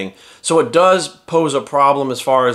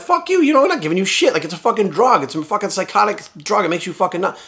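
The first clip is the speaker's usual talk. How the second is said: mock officials; 5 semitones higher than usual. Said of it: "they were like".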